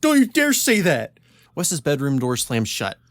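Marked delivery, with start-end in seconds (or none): 0.0-1.2 high, loud outraged yell; hammed-up angry shout, pitched way up; yelling back. A narrator's reading. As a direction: yell it right back at the kid. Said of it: "yelling right back".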